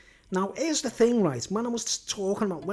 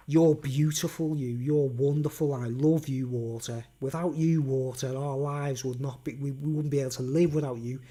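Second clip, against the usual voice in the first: complimenting; 5 semitones lower than usual. Acted. Speaker talking kindly to a glass of water, low compliments. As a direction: gently sweet-talk it in a lowered voice. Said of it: "pile the glass of water with compliments".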